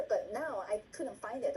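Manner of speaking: ordinary talk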